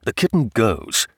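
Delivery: husband's firm counter in the natural register; husband insisting. Acted. Husband overrules wife on the kitten, firm. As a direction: counter firmly, without raising the pitch.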